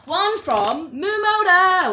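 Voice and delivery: high, loud, slow sing-song; excited announcement. Real, not acted. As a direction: announce the brand with a thrill.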